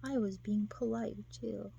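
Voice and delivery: mildly hurt, falling away soft; understated retold hurt; sad. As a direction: act out a wounded protest quietly. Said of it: "And he's all sad".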